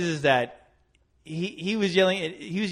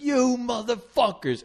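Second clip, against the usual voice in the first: mock angry cursing; 8 semitones higher, slower than usual. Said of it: "he started fucking cursing".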